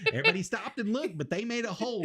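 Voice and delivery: laughing through the words. Real, not acted. Laughing while telling.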